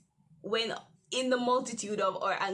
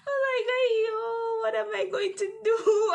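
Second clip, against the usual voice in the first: laughing panic; 11 semitones higher, 7 dB louder than usual. Retold or imitated. Hearing the penalty fee.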